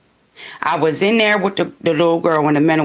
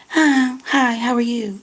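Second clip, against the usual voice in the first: high-pitched mock pleasantry; put-on higher voice for a fake greeting; fake-friendly greeting; 5 semitones higher, slower than usual. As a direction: mimic a phony, sugary hello. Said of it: "You so fake".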